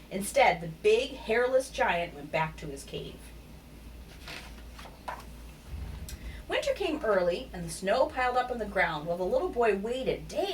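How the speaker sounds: animated picture-book read, lively pitch swings; story narration. A narrator's reading. Narrator telling children of Wilfred the hairy giant, animated storytelling. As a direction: read it expressively to young children.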